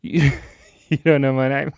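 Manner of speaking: laughing fake indignant yell; mock outraged shout. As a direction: pretend to be offended, laughing through it. Mock outrage at forgotten name.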